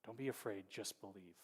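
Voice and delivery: soft hushed near-whisper; hushed reassurance, barely voiced. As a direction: breathe it gently like a secret comfort. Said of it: "Jesus whispers to him".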